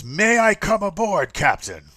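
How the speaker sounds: high, loud polite request; formal officer. Acted. Harbor officer asks the captain to come aboard, high. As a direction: ask permission with official courtesy.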